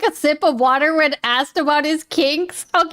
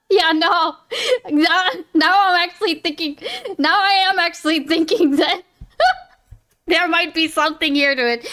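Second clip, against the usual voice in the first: laughing; 5 semitones higher than usual. Real, not acted. Laughing through his own joke.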